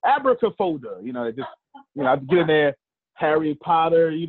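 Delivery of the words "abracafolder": theatrical magician. Acted. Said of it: "I do magician voices".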